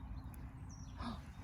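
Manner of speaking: soft, breathy gasp of delight. Real, not acted. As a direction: gasp very quietly at a find. Spots a find in dirt.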